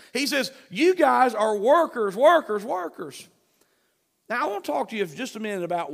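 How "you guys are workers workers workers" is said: "workers" repeated with punchy emphasis; emphatic repetition. Retold or imitated. Preacher quoting the Lord's play on words, "workers" hit emphatically each time. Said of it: "uses an emphasis".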